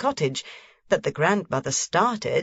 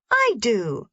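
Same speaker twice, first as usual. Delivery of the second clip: put-on higher, firm little girl; stout reply; 6 semitones higher than usual. A narrator's reading. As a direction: answer firmly, standing her ground. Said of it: "Heidi replied stoutly".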